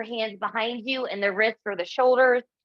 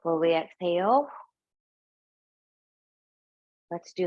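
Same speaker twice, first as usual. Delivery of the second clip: unhurried yoga teacher's cueing with long pauses; spaced-out meditation prompts, room to breathe between phrases; guided breathing; 3 semitones lower than usual. Real, not acted. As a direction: guide them calmly through each breath. Leads a breathing exercise.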